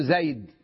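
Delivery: زيد said stopped on a silent dal, no final nun; pausal form. Shown as a demonstration. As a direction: stop on زيد without sounding the tanwin. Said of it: "حتى عند الوقف ماذا تقول؟". (الوقف على زيد بالسكون دون نون)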